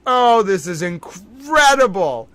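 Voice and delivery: slow, near-tearful "this is incredible"; overwhelmed. Real, not acted. Streamer overwhelmed by trial news, slow and near tears. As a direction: let the disbelief crack the voice.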